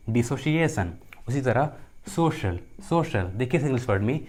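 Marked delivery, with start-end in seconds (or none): 2.1-3.3 "सोशल" said twice slowly with sh; C pronounced as sh. Shown as a demonstration. Teacher showing C before IA, slow sh demonstration. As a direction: model "सोशल" slowly, a clear sh in the middle. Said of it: "सी का उच्चारण श होता है".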